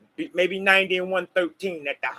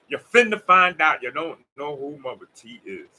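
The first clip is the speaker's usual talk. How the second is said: southern accent; 4 semitones lower, 4 dB louder than usual. Shown as a demonstration. Telling viewers to find Mama T, in a light Southern accent. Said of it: "let me say in my southern accent".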